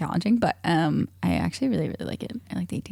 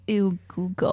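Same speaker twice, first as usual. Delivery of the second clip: mock disgust; slower than usual. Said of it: "I thought you were gonna say".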